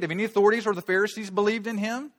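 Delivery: loud, high, scornful challenge; haughty Pharisees. Acted. Pharisees berating their own officers, loud and haughty. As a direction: sneer down at them from your authority. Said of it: "They just got out of their mouth".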